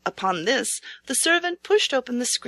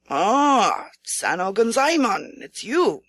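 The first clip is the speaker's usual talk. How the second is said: lightly voiced regent coaxing a frightened knight; regent's voice; 3 semitones higher than usual. A narrator's reading. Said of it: "Then a voice said".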